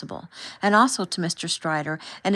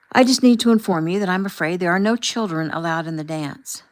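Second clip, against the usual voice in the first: louder, officious warning; stern announcement; 6 dB louder than usual. Acted. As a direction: lay down the rule loudly. Chaperone confronts the family.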